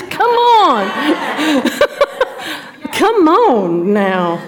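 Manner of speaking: high, loud playful coaxing; urging the room. Real, not acted. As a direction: egg the ladies on to answer up. Urging quiet ladies to answer.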